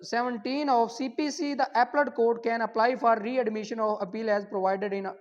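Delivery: dictating the exam question at half speed; slow dictation to the class; slow question read. Shown as a demonstration. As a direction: read the question slowly and clearly. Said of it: "अब हमारे पास question number बारह".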